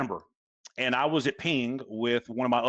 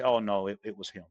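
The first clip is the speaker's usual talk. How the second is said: mock blame-shifting; 5 semitones lower than usual. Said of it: "pass the buck and say".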